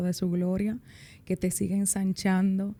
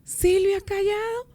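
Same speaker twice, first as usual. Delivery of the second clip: surprised; 12 semitones higher than usual. Retold or imitated. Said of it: "Y yo me volteé y dije".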